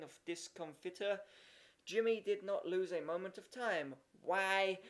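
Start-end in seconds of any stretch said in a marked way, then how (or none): 4.2-4.8 yelled. A narrator's reading. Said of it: "he yelled".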